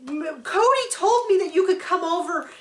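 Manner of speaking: lightly voiced, smug retelling; imitating Robin. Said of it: "then she says".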